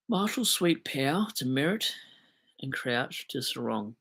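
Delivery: reads the trade list slowly, word by word; slow, careful read of a confusing list. Shown as a demonstration. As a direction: spell the names out carefully and slowly. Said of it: "I had to read that really slow".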